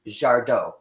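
"Jardot" said the French way, silent T; low, French-style "Jardot"; French pronunciation. Shown as a demonstration. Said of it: "Named after a French immigrant".

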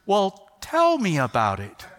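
slow, deliberately calm dad voice; measured, composed invitation; forced calm. Retold or imitated. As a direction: keep it level though panicking inside. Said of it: "I'm trying to stay really composed".

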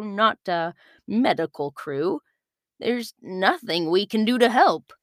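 a touch of a sorry ship captain; lightly voiced regretful captain. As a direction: let her down gently and sadly.

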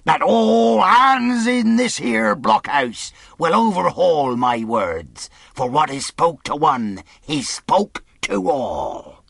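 pirate lifting his voice for all to hear. Acted. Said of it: "raising his voice".

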